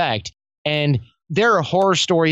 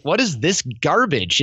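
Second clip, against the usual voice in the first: mock disbelief with swooping pitch; scoffing, exasperated question; retold incredulity. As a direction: react as if handed obvious junk. Retold disbelief at quick-fix pitches.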